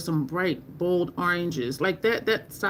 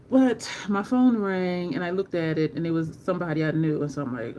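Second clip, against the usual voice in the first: usual speaking voice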